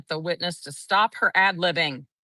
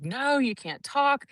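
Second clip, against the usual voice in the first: mimicked hushing warning, higher and slow; hushing advocate; 8 semitones higher, slower than usual. Advocate hushing the stepmom beside her, imitated warning. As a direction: warn her to stay silent, imitated. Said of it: "the advocate was sitting next to her and was like".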